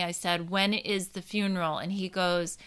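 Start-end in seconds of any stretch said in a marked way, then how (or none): 0.5-1.8 soft, composed retold question; calm, understated reply. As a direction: ask gently, keeping your reaction in check. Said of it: "very calmly".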